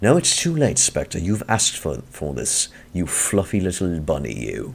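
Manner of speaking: rough attempt at a put-on British accent. Taunting Spectre in a role-play, trying out an accent: attempted British accent. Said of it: "let's try to talk with a British accent".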